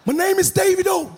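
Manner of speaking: imitating a star's fake American accent; lightly hammed American accent; put-on American accent. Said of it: "they get foreign accent all of a sudden".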